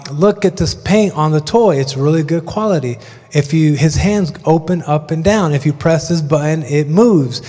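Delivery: flat droning toy-review monotone. Retold or imitated. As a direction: drone it out in monotone. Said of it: "the most monotone voice you could imagine".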